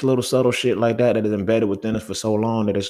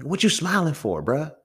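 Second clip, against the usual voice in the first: challenging question; 10 semitones higher than usual. Retold or imitated. Imitating himself questioning homeboy.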